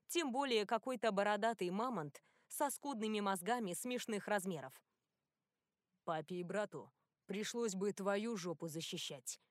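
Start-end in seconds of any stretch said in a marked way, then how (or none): 6.0-9.4 curt angry retort; snapping back. Acted. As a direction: bite back at the insult. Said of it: "огрызнулся Тео". (огрызаясь)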